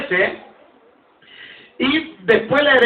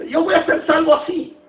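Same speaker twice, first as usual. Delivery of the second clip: mocking careless doubter; 3 semitones higher than usual. Preacher imitating people who shrug off church, fast and scoffing. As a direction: rattle it off like someone who couldn't care less. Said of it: "dicen algunos".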